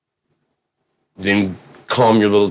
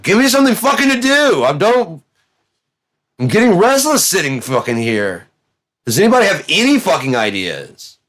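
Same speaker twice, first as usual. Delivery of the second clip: restless God whining; 8 semitones higher than usual. Retold or imitated.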